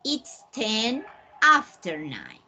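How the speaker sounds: "It's ten after nine" said slowly, leaning on "after"; slow model sentence. Shown as a demonstration. Teacher modelling the alternative time phrase slowly.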